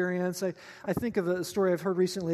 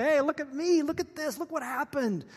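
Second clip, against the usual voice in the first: high-pitched mock showing off; excited, higher-pitched crowing; boasting; 6 semitones higher than usual. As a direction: call out to the whole town, playfully gloating. Imagined boasting to whole town.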